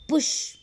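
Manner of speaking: पुश with P and SH pressed, the U light; stress on P and SH. Shown as a demonstration. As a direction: push the P and the SH in पुश. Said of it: "पी और एस एच पर ज़्यादा". (पुश में प और श पर ज़ोर, उ हल्का)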